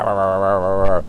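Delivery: loud mock nagging rah rah; mock nagging chatter. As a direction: drown him in loud babble. Mimicking women nagging.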